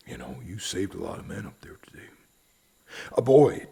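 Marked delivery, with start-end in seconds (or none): 0.1-2.1 fast, soft whispered words; hushed comfort to the widow; quick whisper. Acted. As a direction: hurry it out under your breath. Sheriff consoles widow softly.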